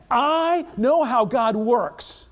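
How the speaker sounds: slow, loud know-it-all claim; a hint of Naaman's arrogance; smug certainty. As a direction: lean on know like a proud man. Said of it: "But Naaman said".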